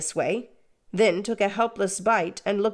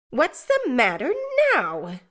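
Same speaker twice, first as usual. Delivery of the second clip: more sharply; 7 semitones higher than usual. Acted. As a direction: demand it again, impatient. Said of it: "more sharply than before".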